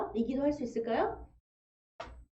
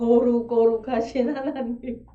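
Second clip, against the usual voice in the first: solemn prayer; 6 dB louder, slower than usual. Acted. Mock pious prayer voice.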